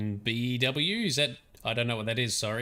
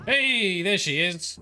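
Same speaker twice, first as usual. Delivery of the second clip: excited greeting; 8 semitones higher, 5 dB louder, slower than usual. Real, not acted. Dog appears on screen.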